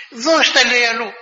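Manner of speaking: high, loud insistence; high, loud command; insistent order. Retold or imitated. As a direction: press him to give it away. Melania insists he give it away.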